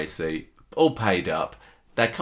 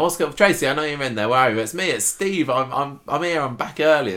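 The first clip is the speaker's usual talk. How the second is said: husband calling to his wife through the shop door, a touch raised; 6 semitones higher than usual. Retold or imitated. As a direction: call out to the one inside. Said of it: "starts rapping on the door and go".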